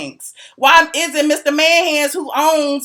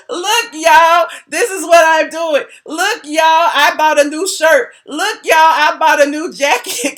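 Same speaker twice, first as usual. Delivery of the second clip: higher mocking imitation of bragging; hammed-up look-at-me announcement; mock showing off; 4 semitones higher than usual. Mock quote of him showing off purchases.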